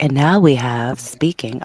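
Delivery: lightly put-on radio presenter; a measured public-radio introduction, slightly projected; a hint of NPR host; calm NPR voice. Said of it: "like, my calm voice".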